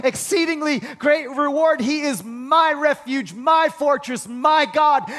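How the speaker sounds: rising preacher's cadence, punching each my; fervent preaching. Real, not acted. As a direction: build it up like a revival preacher. Builds preaching crescendo.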